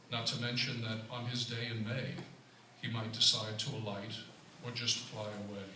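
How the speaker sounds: light rhymed-verse recital; poetry reading. Acted. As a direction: read it as verse, pausing at the line ends. Recites sonnet for a mayfly.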